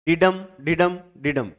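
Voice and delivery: डिडम in even two-beat feet, weight on डम; meter demonstration. Shown as a demonstration. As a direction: tap out डिडम as a repeated light-heavy pattern. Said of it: "ये एक metre है। कैसे?".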